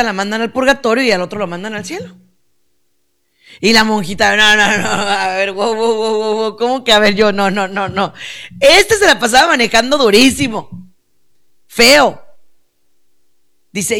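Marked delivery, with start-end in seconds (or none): 4.4-8.1 rapid run of mock objections; indignant protest. Preacher voicing the nun disputing being sent to purgatory, indignant. 8.6-12.2 higher, louder mock outrage; indignant accusation. Preacher voicing the nun accusing the taxi driver, indignant.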